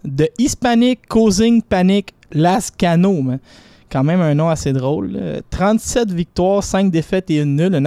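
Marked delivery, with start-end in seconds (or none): 0.0-3.2 slow English boxing nickname with a Québécois French accent. Real, not acted. Sports pundit reading English nicknames, Québécois French accent. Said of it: "mon accent".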